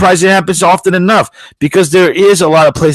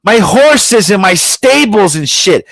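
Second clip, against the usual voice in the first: high, slow whining mock of her; mocking celebrity; 5 semitones higher, slower than usual. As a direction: whine about the horses like a spoiled star. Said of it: "She goes".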